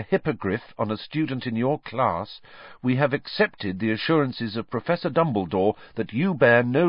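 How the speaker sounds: put-on boy reading an official letter aloud to his friend; reading a formal letter. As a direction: read the letter out like a notice.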